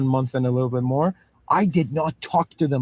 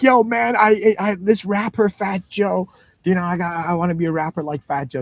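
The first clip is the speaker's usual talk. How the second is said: put-on kid voice; 4 semitones higher than usual. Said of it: "child's like".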